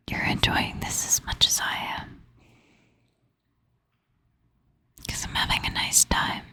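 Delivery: drowsy, half-asleep whisper; sleepy and drifting off while whispering; nodding off. Real, not acted. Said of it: "it might look like I'm falling asleep".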